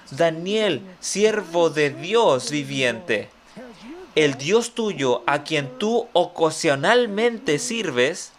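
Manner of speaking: slow, teasing misreading of "ocasionalmente"; deliberate misquote. Shown as a demonstration. Preacher misquotes the king to test the congregation, slow and teasing. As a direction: stretch the king's call into a mock mistake. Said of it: "No, no dice ocasionalmente".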